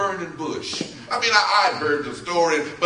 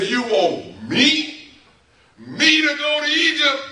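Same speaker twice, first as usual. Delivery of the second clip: incredulous Moses; 8 semitones higher than usual. Acted. Moses answering God's call to Egypt, incredulous. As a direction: pitch leaps up on a stunned question.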